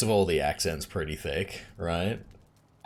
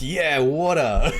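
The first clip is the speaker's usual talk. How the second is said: laughing mock echo; 10 semitones higher, 7 dB louder, much slower than usual. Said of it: "I'm like".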